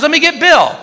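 high-pitched mock-wife voice; imitated wife. Wife telling friends she will fetch her husband, imitated chipper.

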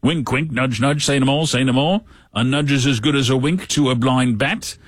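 lightly voiced Monty Python bit; Monty Python sketch quote. Host quoting a Monty Python sketch, lightly voiced. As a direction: toss off the sketch line like a knowing Brit. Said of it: "as, uh, Monty Python would say".

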